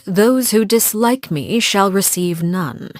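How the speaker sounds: lightly imitated stately pronouncement; slow, lightly stately quoted declaration; stately claim. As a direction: quote her claim slowly, with a hint of stateliness. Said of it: "and the stately claim that".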